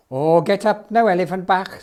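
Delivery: calling out. Acted. Jones calls to the kneeling elephant.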